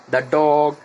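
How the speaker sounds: "the dog" with the said as "da"; "the" as দা before consonant. Shown as a demonstration. Teacher giving a consonant example, "the dog" with "da". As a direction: open vowel in "the" before "dog". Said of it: "সেই ক্ষেত্রে আমরা বলবো দা".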